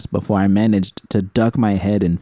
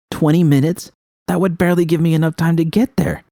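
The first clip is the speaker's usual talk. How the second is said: panicked disbelief; 8 semitones higher than usual. A narrator's reading. Panicked at deadline.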